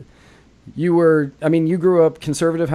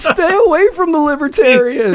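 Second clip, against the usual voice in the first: ominous voice; 12 semitones higher, 5 dB louder than usual. Retold or imitated. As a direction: intone it like a voice from above. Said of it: "It said".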